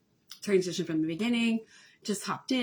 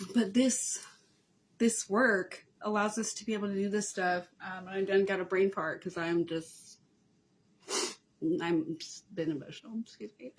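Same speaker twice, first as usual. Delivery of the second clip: after crying. Real, not acted. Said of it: "I've been crying".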